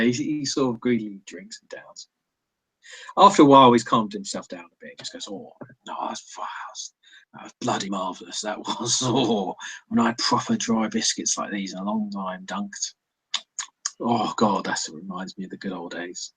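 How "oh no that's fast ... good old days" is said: put-on contented old ghoul relishing his biscuits; soft-spoken, reminiscing ghoul savouring a treat; lightly voiced old ghoul. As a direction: sigh it out like a satisfied old-timer. Game master plays the ghoul.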